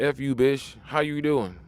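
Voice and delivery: lightly voiced street catcall; mock rough pickup line; crude street greeting. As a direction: toss it at her like a guy on the corner. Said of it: "nigga from the street send you a".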